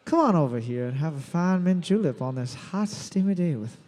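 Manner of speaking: put-on a playful, lightly done Southern accent; mock southern accent. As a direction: play a lazy Southern lady offering a julep. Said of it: "does a southern accent and uses the word mint julep".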